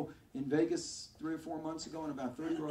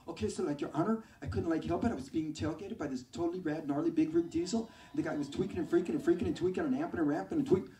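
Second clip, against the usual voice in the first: put-on valley girl; 4 dB louder than usual. Valley girl defendant testifying.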